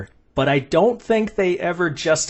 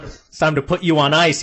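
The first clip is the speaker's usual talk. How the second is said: Schwarzenegger pun; 4 semitones higher than usual. Retold or imitated. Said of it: "ice puns like Schwarzenegger".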